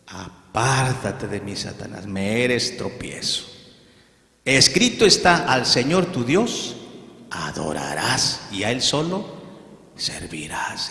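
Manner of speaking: firm and grave, dropping to a hush; Jesus rebuking Satan. Acted. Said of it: "¿Y qué le dijo Jesús?".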